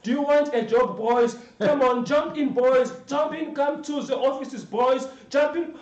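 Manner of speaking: loud, high mock recruiter shouting from a car; rich driver calling. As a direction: wave the boys into your car. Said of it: "white people with very big, big cars".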